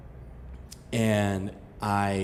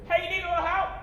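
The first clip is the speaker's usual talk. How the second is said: much higher, easygoing dude calling out; soft high laid-back guy offering help, rising at the end; friendly rescuer voice; 7 dB quieter, much faster than usual. Retold or imitated. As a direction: call out casually from a kayak. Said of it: "that's what God sounds like?".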